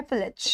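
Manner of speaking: पिलज with a short "i" in the second syllable, "PIL-ij"; correct pronunciation. Shown as a demonstration. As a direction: say पिलज like "pillij", short unstressed ending. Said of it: "but इसका जो pronunciation है".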